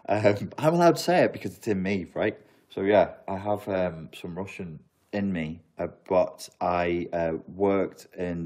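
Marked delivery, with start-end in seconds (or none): none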